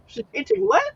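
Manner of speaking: high, baffled squeak of disbelief; laughing high-pitched confusion; surprised. Retold or imitated. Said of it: "and I'm like".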